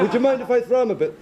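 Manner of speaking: high-pitched comic Irishman; put-on Irish accent. Irishman asking a woman about her poodle, comic Irish accent. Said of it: "That's not a bad accent".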